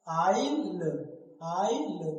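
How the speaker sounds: आइल said "aail", no s; silent s. Shown as a demonstration. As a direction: say आइल like English "aisle". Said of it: "तो यहाँ एस क्या है?".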